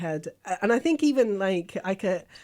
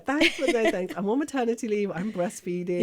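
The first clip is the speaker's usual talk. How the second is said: higher, louder, breezy brush-off; turning down the invitation lightly; mock polite refusal; 4 semitones higher, 3 dB louder than usual. Declining the BBC invite, mock polite refusal.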